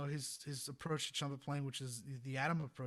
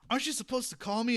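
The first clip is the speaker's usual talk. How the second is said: teasing reproach; 9 semitones higher, 9 dB louder than usual. Retold or imitated. Charlie teases him.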